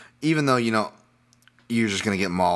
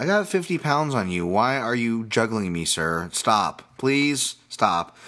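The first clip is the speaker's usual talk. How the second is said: half-joking protest, starting high then dropping; mock helpless plea; 4 semitones higher, slower than usual. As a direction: plead like someone being toyed with. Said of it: "you feel like a chi-, a child".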